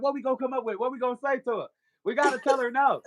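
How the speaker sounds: a hint of urgent inner conspirators; scheming demons. Demons plot to keep her from church, lightly voiced scheming. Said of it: "Demons was fighting me".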